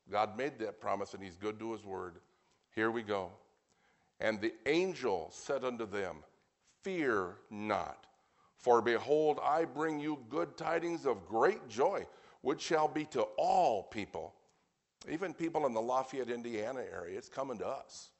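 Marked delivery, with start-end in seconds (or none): 4.2-14.3 deliberate, emphatic Bible reading; slow scripture reading. Real, not acted. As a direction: proclaim the verse unhurriedly, stretching key words. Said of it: "I want to read them slowly".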